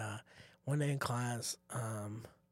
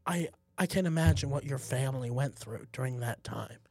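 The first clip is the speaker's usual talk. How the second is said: apologetic teacher; 3 semitones lower, 6 dB quieter than usual. Retold or imitated. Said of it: "and he just goes".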